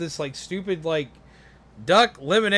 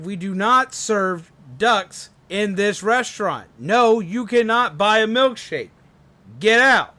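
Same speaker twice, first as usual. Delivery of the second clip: angry manager; 3 semitones higher, 4 dB louder than usual. Acted. Manager throwing duck out.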